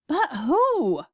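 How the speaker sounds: loud, high bewildered demand; yelling. A narrator's reading. President demanding to know the attacker, yelling. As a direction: yell the question out. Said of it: "yelled the president".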